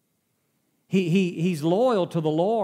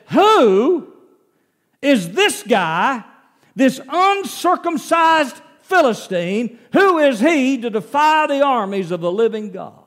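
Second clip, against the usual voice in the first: loud, indignant outcry; angry; 7 semitones higher, 7 dB louder than usual. Retold or imitated. Young David outraged at the giant's taunt, loud and angry. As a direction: demand it, offended for God. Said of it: "David gets angry and says".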